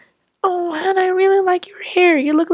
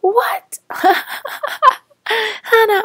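surprised; 7 semitones higher, much slower than usual. Acted. Sudden shock at Hannah's hair.

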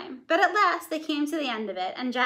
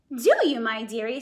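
ogre's wife soothing; 3 dB louder than usual. Acted. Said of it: "my voice changed".

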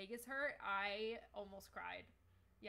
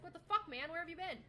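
angry NPC; 6 semitones higher, 5 dB louder than usual. Acted. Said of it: "He's like".

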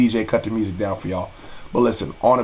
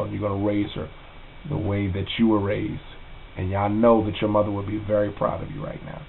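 softer, holding back tears; a heartfelt message, voice a little choked; getting emotional; 3 dB quieter than usual. Real, not acted. To his cousin Jess on camera, quietly choked up. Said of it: "excuse me if I get a little emotional".

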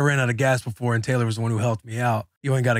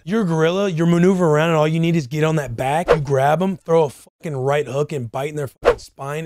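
pumped-up louder play-by-play; excited; 4 dB louder than usual. Real, not acted. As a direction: hype the fight up, punchy. Hyped describing gorilla fight.

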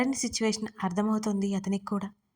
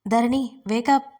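plain reading voice

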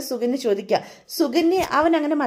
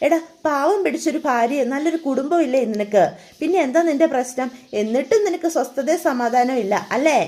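scolding mother; 2 semitones higher than usual. Acted. Mother scolds drunk son.

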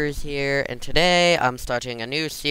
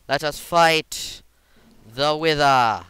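mad scientist; 4 semitones higher, 6 dB louder, slower than usual. Acted. Dramatic boss battle announcement.

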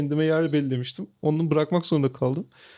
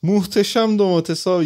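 imitating vendor's pitch; 2 semitones higher, 4 dB louder than usual. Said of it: "vendor's pitch".

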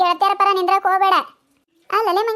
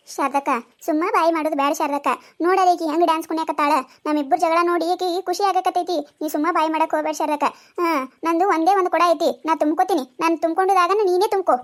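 lower village woman; 4 semitones lower than usual. Acted. A second woman pleads in the quarrel.

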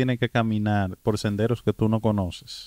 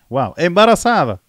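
loud, high-pitched real astonishment; astonished; 7 semitones higher, 6 dB louder than usual. Real, not acted. Host reacting to a pregnant migrant's long walk, astonished. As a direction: react in disbelief, voice jumping up.

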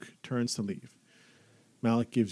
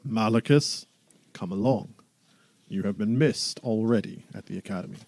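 booming Duke voice; 3 dB louder than usual. Acted. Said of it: "big booming voice".

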